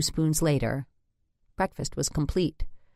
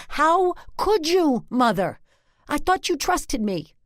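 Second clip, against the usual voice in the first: wailing; 12 semitones higher, 4 dB louder than usual. Acted. Daughter wails again at mother.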